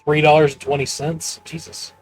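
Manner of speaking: loud, incredulous disbelief; can't believe how cheap; surprised. Real, not acted. Streamer reacts to cheap old price.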